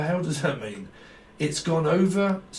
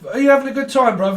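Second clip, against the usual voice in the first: loud mock party guy; 8 semitones higher, 8 dB louder, much faster than usual. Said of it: "holding balloons going".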